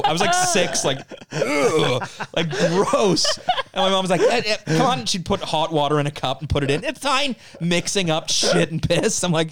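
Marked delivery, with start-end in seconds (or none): 1.3-3.2 put-on grossed-out childish groan; disgusted ugh. 4.2-5.1 high, louder mock mom coaxing. Mom coaxing child, quoted. 6.8-7.3 high breezy mock reassurance; mock mom.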